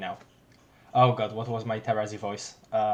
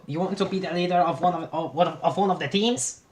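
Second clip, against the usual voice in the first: higher, laughing, wrong voice; wrong character voice; 4 semitones higher than usual. Acted. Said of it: "I messed up the frickin' voices".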